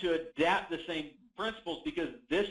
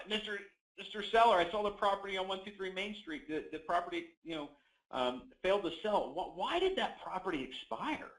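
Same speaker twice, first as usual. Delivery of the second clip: soft tentative tone; 3 semitones higher than usual. Shown as a demonstration. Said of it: "exact same words with two different tonalities".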